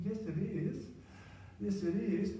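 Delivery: high-pitched, mock-indignant insistence; indignant inner voice.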